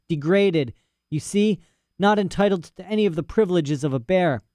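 put-on a rambling, self-important old scholar; lightly voiced old professor.

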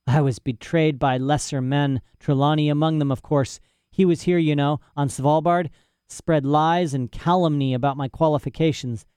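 put-on a rambling, self-important old scholar; lightly voiced old professor. Professor's rant continues.

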